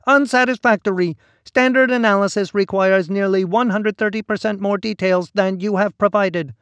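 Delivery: whiny voice. A narrator's reading. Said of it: "a repellent whine".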